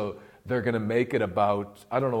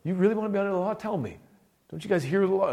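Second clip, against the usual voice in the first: high-pitched, exasperated disbelief; imitating an incredulous rebuke; changed voice, incredulous; 9 semitones higher than usual. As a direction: challenge them as if they must be kidding. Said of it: "see, his voice has changed".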